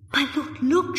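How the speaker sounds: urgent, eager alert; excited discovery. A narrator's reading. Finding Barbara's handkerchief.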